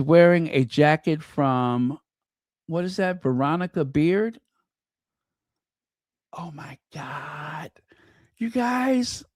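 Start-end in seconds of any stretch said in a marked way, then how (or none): 6.4-9.2 hushed, near-silent awe; whispering. Real, not acted. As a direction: breathe it out in a hush, as if in church. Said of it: "Why am I whispering?".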